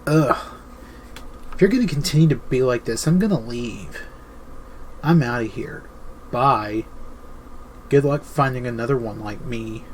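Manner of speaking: exasperated huffy ultimatum, mock-annoyed; huffy girlfriend. Girlfriend huffing at her depressed man, exasperated mock. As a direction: sigh it out like a fed-up girlfriend. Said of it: "get all huffy and puffy and be all like".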